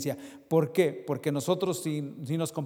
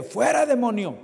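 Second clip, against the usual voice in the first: rebuking a demon; 5 semitones higher, 3 dB louder than usual. Retold or imitated. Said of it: "que dice".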